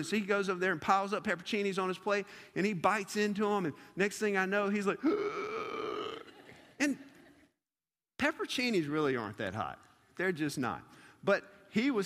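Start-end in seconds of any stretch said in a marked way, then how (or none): 5.0-6.2 long sucked-in gasp; mock pained gasp. JoJo biting into a hot pepper, gasping. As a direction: imitate gasping from a burning mouth.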